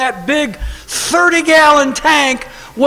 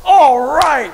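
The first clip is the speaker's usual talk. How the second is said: put-on excited kid; 5 semitones higher, 3 dB louder than usual. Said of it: "I'd go".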